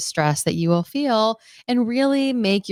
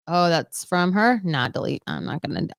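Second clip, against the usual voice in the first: dismissive mumble; 4 semitones lower than usual. Retold or imitated. Retells avoiding emails, dismissive.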